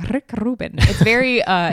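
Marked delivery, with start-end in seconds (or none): 0.1-0.7 Rick Rubin higher in a playful put-on accent. Cohost answering who wrote it, playful put-on accent. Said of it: "I don't know why you do it".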